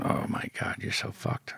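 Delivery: hushed, near-whispered aside; dismayed inner thought. Retold or imitated. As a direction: murmur it softly to yourself in dread. His own dismayed thought, retold.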